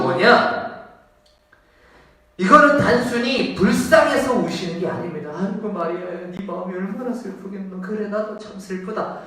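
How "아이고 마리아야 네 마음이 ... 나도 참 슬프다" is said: softer, gently pitying sigh; tender pity. Retold or imitated. Jesus consoling grieving Mary, softly pitying. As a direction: comfort her in a soft sympathetic tone. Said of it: "이게 아니라는 거예요".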